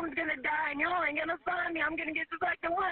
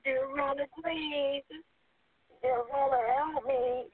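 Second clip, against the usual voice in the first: tearful prayer. Real, not acted. Caller prays while trapped.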